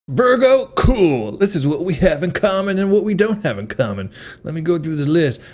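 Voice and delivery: high, bubbly barista voice; overeager barista. Retold or imitated. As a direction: gush like a too-friendly barista. Barista voiced in comedic bit.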